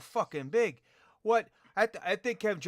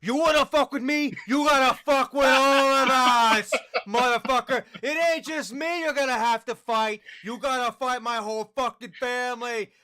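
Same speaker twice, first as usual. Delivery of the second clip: high, loud rat tough guy; 4 semitones higher, 5 dB louder than usual. Retold or imitated. Rat threatening the party, high and loud. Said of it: "you hear the rat going".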